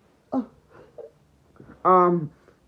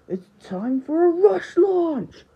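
slow, raised attack announcement; battle call; 6 semitones higher, 5 dB louder, slower than usual. Acted. Player announces a rush launch, loud battle call. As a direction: call out the move loudly.

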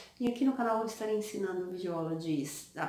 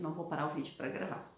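drowsy and trailing off; sleepy, low, fading apology; 4 semitones lower, 4 dB quieter than usual. Real, not acted. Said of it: "eu tô morrendo de sono".

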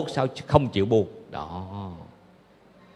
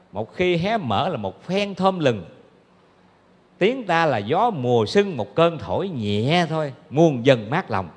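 slow verse recital; slower than usual. Acted. Reciting verse about the Buddha's voice.

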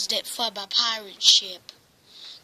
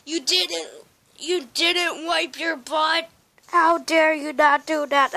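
scolding; 3 semitones higher than usual. Acted. Puppet scolds about dirty tail.

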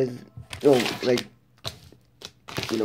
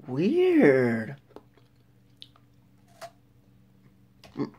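talking with mouth full; muffled words between bites; chewing chocolate. Real, not acted. Seen 0: Holds bitten chocolate by mouth, closed lips, tasting faces throughout.

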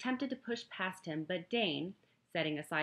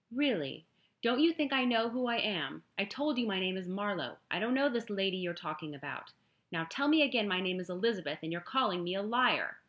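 indignant protest; 3 semitones higher, 7 dB louder than usual. Acted. Heroine protests being called liar.

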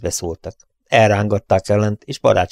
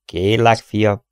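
put-on old stage pathos; 3 dB louder, slower than usual. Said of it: "azzal az ort pátosszal".

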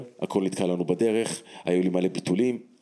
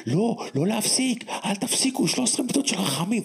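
retold shout. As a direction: shout over the crowd to keep praying. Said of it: "והרב בצרי צועק".

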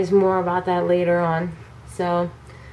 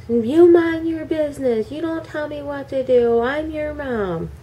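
raised, sharp mock mom voice; scolding mom; 5 semitones higher than usual. Retelling how mom scolded her, lightly acted. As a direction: play the bossy mom telling her off.

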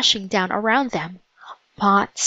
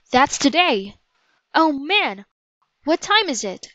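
higher-pitched, acted alarm; mild panic; 6 semitones higher than usual. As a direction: let understated panic lift the pitch. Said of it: "He looked around wildly".

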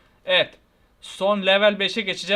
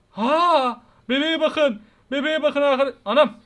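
startled excitement; 5 semitones higher, 5 dB louder than usual. Real, not acted. Baby does something creepy.

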